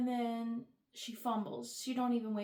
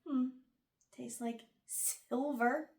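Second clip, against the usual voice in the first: slow sultry voice; much slower than usual. Retold or imitated. Cohen licks the wound.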